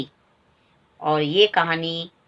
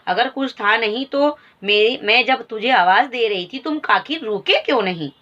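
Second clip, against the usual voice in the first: resentful question; 3 semitones higher than usual. Acted. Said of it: "रोषपूर्ण स्वर में पूछा".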